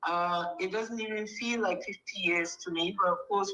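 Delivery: thin phone line voice; phone speaker. Real, not acted. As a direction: heard through a telephone. Answers over the phone line.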